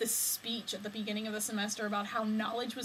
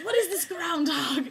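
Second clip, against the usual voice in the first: puzzled; 7 semitones higher, 7 dB louder than usual. Retold or imitated. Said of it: "She was like".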